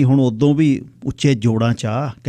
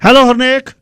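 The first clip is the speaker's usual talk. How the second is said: calling out; 12 semitones higher, 9 dB louder than usual. Acted. Woman calls his name across room.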